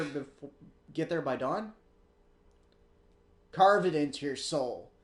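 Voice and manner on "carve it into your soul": gruff and emphatic, punched out; louder gruff warning. Acted. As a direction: drill it in like a stern mentor. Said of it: "I got a gruff voice for obviously an older woman".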